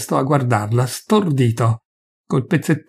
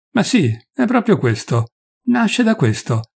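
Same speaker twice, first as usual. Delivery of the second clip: rising heat, pitch climbing on the last words; angry outburst, climbing high; 7 semitones higher than usual. A narrator's reading. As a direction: say it with mounting anger. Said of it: "riprese lui con rabbia".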